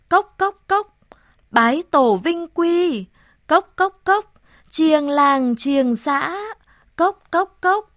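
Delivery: loud, sing-song crier cries with high knocking cốc; village crier call. Acted. A village crier calls out the news to everyone, loud and sing-song. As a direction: announce it to the whole village, beating a clapper.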